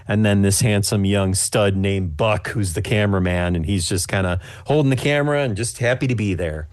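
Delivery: usual speaking voice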